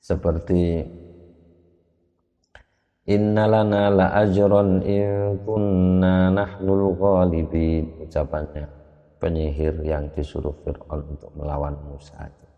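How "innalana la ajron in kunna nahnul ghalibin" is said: INNALANA LA AJRON drawn out slowly on an even, slightly raised tone; slow even recitation, no question tune; recitation without question intonation. Shown as a demonstration. Teacher reciting the sorcerers' words to Musa's opponent Pharaoh, without question intonation. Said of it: "Itu kalau tidak ada intonasinya".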